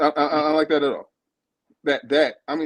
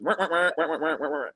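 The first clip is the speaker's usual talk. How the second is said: mock wah wah noise. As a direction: imitate tuned-out nagging, a laugh at the end. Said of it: "He just".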